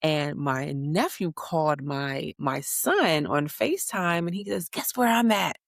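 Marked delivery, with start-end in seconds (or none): 4.7-5.6 put-on higher, playful little-boy voice; teasing kid voice. Nephew calling his cousin on FaceTime, playful higher kid voice. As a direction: sing it out like a proud kid.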